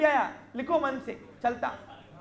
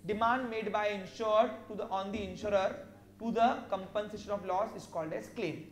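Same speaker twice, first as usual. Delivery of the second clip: slow, word by word dictation; much slower than usual. Shown as a demonstration. Teacher dictating a definition to students, slow and measured. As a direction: spell it out so students can write.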